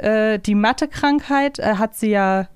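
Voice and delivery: usual speaking voice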